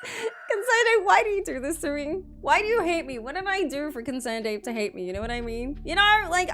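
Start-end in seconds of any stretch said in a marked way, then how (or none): 0.0-3.2 mock whine. Real, not acted. Mock pleading with the developer.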